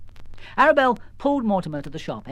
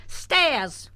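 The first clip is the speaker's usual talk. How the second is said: higher, indignant grumble; exasperated mum; 10 semitones higher than usual. Acted. Missus Jones grumbling to Arabelle, exasperated. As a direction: huff it out in disbelief.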